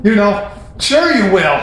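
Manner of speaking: mock sarcastic. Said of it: "he's just saying it sarcastically".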